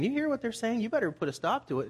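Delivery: high-pitched imitation of indignant priests; mock protest, starting high and dropping; a touch of put-on indignation; mildly indignant. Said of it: "they were indignant".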